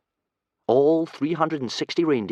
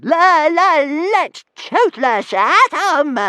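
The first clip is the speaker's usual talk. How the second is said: much higher, louder dragon shriek; 10 dB louder, much slower than usual. Acted. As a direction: let him burst out squealing with glee. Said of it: "shrieked Toothless".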